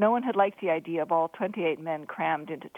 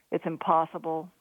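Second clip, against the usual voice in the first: ordinary delivery, nothing marked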